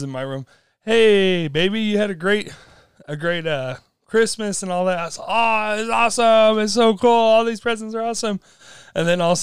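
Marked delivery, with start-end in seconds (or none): 0.8-5.0 sweet mom. Retold or imitated. Mom sweetly entering room. 5.2-8.4 higher, louder gushing over presents; overeager kid. Retold or imitated. Boy gushing to mom while hiding the broken mirror. Kid overacting delight to hide guilt.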